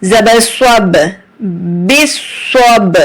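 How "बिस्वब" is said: बिस्वब with a bounce on the final b; jolted b. Shown as a demonstration. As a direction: give the b in बिस्वब a small jolt, slowly. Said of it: "झटका देंगे क्योंकि हरफ कलकला है".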